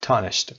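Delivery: astonished with TON stressed. Shown as a demonstration. Teacher isolating the stressed part, stress on TON in astonished. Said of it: "قسمت تا".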